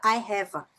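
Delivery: "have a" run together as "hava"; linked V and A. Shown as a demonstration. Teacher repeating the connection for students, linked. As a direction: say "have a" as a single word. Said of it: "conectar esse A com esse V".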